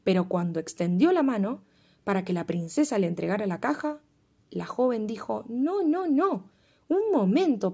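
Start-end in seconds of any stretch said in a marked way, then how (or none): 5.5-7.7 high, rising urgent no; urgent protest. Acted. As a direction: stop them in a hurry. Princess stops the servant.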